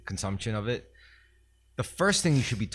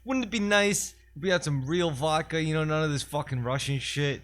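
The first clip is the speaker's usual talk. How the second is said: Uncle Tito voice; 7 semitones higher than usual. Pretend. Uncle Tito boasting how he invented his vodka, high and hammed-up. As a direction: spin the brand legend as a proud uncle.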